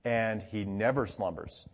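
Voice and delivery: slow, measured stress on NEVER; unhurried emphasis on NEVER slumbers; emphatic restatement. Retold or imitated. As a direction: give NEVER deliberate weight. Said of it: "but in a more emphatic way".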